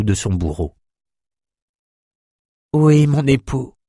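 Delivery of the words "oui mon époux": slow, higher-pitched woman's voice; submissive wife's voice. Acted. Dead empress answering her husband before her lover, submissive wife's voice. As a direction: answer slowly, as the obedient wife. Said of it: "avec la voix qui avait si souvent murmuré".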